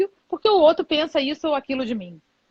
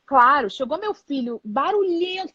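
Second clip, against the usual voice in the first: normal talking voice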